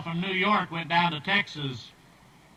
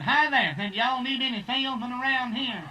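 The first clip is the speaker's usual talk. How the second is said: eager greeting; 6 semitones higher than usual. Acted.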